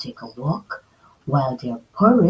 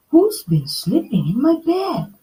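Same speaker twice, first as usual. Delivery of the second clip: mild growl; 8 semitones higher than usual. Acted. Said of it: "growled Mama Bear".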